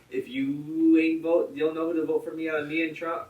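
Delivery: mock a candidate scolding voters; Joe Biden. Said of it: "dumb shit Biden says".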